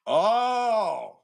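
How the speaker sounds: sudden high loud "Oh!"; surprised shout. Real, not acted. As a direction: burst out in surprise. Streamer's sudden exclamation on stream.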